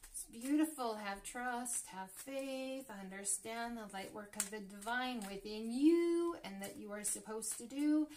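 ordinary talk, nothing marked

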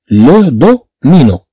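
"لو دو مي نو" said slowly, syllables split; slow modelling of "لو دو مي نو". Shown as a demonstration.

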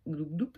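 light playful gulping noise; mock gulping sound. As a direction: gulp gulp spoken out as a noise. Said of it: "Je vais boire un coup".

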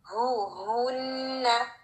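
हु, हुन्ना slow with a strong airy ह. Shown as a demonstration. Teacher models a strong, slow हुन्ना. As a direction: stretch and breathe the हु. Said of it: "अच्छी एक strong sound".

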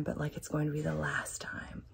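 unvoiced hushed whisper. Real, not acted. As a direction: breathe the words out in a whisper. Reading a steamy line aloud.

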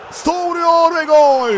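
screaming football commentator. Real, not acted. Goal call in live commentary.

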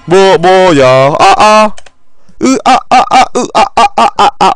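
loud high panicked cries; panicked yelling. Real, not acted. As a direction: stammer out startled yelps. Startled after the fall. (당황한 비명)

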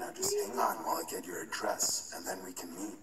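fast unvoiced sinister whisper; creepy whisper. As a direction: hiss it quickly, gloating. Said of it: "webcam began flashing".

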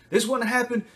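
high, loud, rushing accusation; aggressive outburst. Retold or imitated. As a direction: attack the parent. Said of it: "they get really aggressive".

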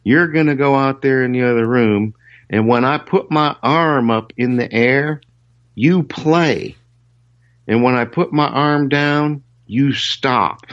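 high mock instructing voice; imitating Chet. Chet instructs the guitarist through the glass, high mock voice. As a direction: lay out the rules like a boss. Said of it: "Chet says".

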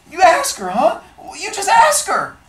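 put-on terrified boy begging them to ask Connie; scared near tears. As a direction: plead on the edge of crying. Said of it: "I got so scared I was about to cry".

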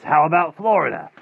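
high, loud sales pitch; eager offer. Acted. Rictus relaying another offer by phone, eager. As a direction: toss out a new prize, big and lifted.

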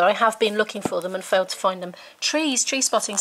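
ordinary delivery

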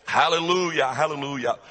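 emphatic pulpit praise, falling on each hallelujah; rally the congregation with ringing praise; fervent preaching. Real, not acted.

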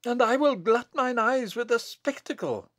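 high-pitched fierce gloating; fierce cry. Acted. Bess relishes the abbot's coming death, fierce cry. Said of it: "cried Bess fiercely".

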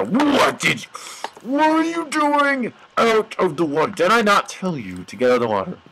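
rising, exasperated telling-off; mock scolding. Player to NPC that left the water, scolding. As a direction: scold like a fed-up parent, half in play. Scolding a game character like a parent.

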